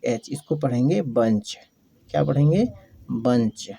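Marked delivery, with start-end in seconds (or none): 3.1-3.7 बंच said as "bunch", short a; बंच with a short a, not बुंच. Shown as a demonstration. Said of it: "बुंच नहीं पढ़ेंगे, बल्कि पढ़ेंगे बंच". (बंच, छोटे अ के साथ)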